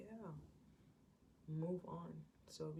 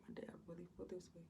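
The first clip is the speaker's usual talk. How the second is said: dismayed whisper; 7 dB quieter, faster than usual. Retold or imitated. Jonathan in dismay.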